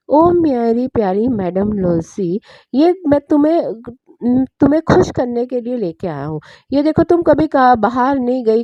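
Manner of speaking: gently coaxing husband; loving coaxing. Acted. Husband lovingly coaxes his wife to go, tender. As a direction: sweet-talk your wife into going. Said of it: "इतने प्यार से बोल रहा है".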